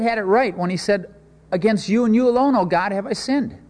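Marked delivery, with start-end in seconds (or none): 1.5-3.6 emphatic proclamation. Acted. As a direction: proclaim it boldly to the congregation. Preacher repeats David's confession emphatically.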